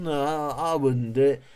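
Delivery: a hint of preachy self-righteousness; mock pious refusal. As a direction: parody the goody-goody answer. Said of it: "people out saying".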